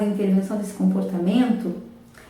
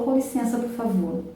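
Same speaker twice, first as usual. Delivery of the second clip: softer and lower, politely asking; 5 dB quieter than usual. Retold or imitated. Child finally asking the therapist to leave, in a soft low voice. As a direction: say it quietly like the calmed child. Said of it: "em tom baixo".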